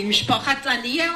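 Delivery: Mishpachat Daniel with a rising, asking tune; questioning. Retold or imitated. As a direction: ask it back as a mild question. Librarian checks the family name.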